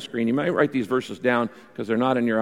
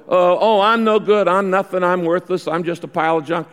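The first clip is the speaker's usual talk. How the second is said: hammed-up whiny self-pity, higher and louder; mock self-pity; 3 semitones higher, 4 dB louder than usual. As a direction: play a mopey soul running himself down. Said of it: "I walk around going".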